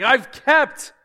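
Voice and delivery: put-on self-satisfied young man bragging to Jesus; smug self-satisfied. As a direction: boast like a proud young man sure he has earned it. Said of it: "pretty happy with himself".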